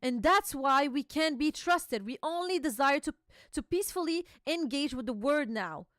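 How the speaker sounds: a hint of an angry giant lecturing; stern king voice. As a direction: read the king's speech with a touch of gravity. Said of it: "He's like".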